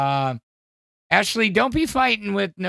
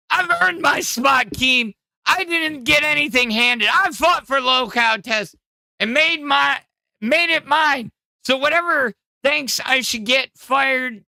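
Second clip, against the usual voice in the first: put-on higher, shouted Welsh-accent rant; attempted Welsh accent; 9 semitones higher, 3 dB louder than usual. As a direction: yell defiance at the boss in a rough Welsh accent. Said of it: "trying to do the voice of Nightmare".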